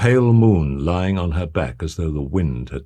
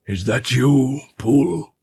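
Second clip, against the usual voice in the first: wary servant; 7 semitones higher, slower than usual. A narrator's reading. Servant asks from behind door.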